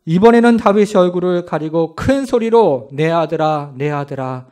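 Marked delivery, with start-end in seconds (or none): 2.9-4.5 wailing. Acted. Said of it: "이렇게 울부짖기를 시작합니다".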